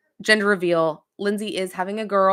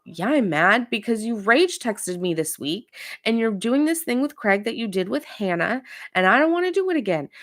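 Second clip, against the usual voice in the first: building higher, faster at the end; rant, rising to a high fast finish; imitating a friend letting it all out, higher and faster; mock angry rant; 5 semitones higher than usual. Paige laying into Kyle at dinner.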